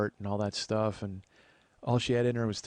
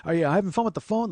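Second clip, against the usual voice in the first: put-on high, loud elderly passerby voice; old people; 9 semitones higher, 6 dB louder than usual. Old passerby quizzing a man texting, high loud voice. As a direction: call out a chatty question, pitched up. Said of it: "they all had questions".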